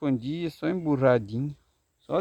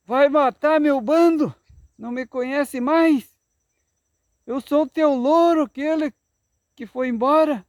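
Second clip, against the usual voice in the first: much higher and louder parrot cry; parrot shouting; 8 semitones higher, 5 dB louder than usual. Acted. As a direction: squawk it out in protest. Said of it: "O papagaio gritou".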